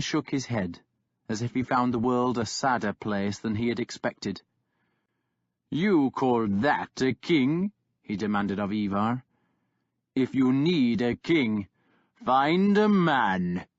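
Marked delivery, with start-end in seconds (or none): 5.7-13.7 lightly voiced brutal warlord; mocking warlord. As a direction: sneer down at the pup. Kjartan scorns to Ivar.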